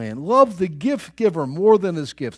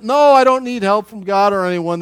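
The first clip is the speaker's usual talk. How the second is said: loud, raised-pitch refusal; mock defiant shout; 4 semitones higher, 9 dB louder than usual. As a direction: shout it back like the stubborn roofer. Roofer yells back to buddy.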